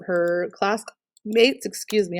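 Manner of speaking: talking through hiccups; speech caught by hiccups; hiccuping. Real, not acted. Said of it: "I'm, like, hiccuping".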